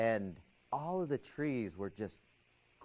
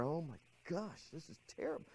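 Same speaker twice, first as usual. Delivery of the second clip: higher, softer retold fretting; anxious inner voice; 5 semitones higher, 6 dB quieter than usual. Student's thoughts getting more and more tense, anxious and higher. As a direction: imitate a mind growing tense. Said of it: "getting more and more anxious".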